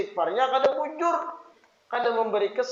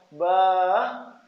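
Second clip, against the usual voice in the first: lingering, coaxing "bah"; long, drawn-out "bah"; 3 semitones lower than usual. Shown as a demonstration. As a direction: draw out "bah" like a pleading child. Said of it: "panjang pendeknya".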